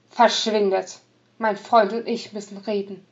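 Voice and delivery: sharp, loud angry command. Acted. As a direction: drive them off angrily. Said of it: "fuhr Chico die Prostituierten an".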